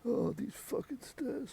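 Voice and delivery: mild mock grumble; grumbling butler. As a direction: grumble at the stairs like a weary old man.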